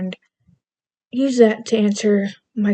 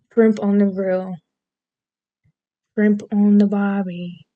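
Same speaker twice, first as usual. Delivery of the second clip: stereotypical Australian accent. Shown as a demonstration. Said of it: "It's very stereotypical".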